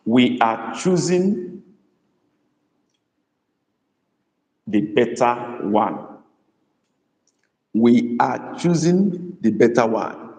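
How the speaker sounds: We are choosing the better one drawn out; slow dictation. Shown as a demonstration. Teacher setting a new sentence for the class. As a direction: dictate it slowly. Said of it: "We move on to".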